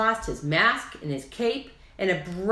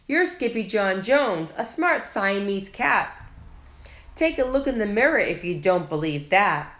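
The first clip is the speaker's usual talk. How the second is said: firm mama cat, louder; 3 semitones higher, 3 dB louder than usual. Acted. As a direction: say his name like a proud mother. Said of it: "Then she added".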